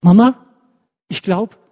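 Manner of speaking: loud, high, joyful call to Mama; storyteller's lightly acted cheerful exclamation; happy child. A narrator's reading. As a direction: voice a delighted boy turning to his mother. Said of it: "ganz fröhlich dreht er sich zu seiner Mama um".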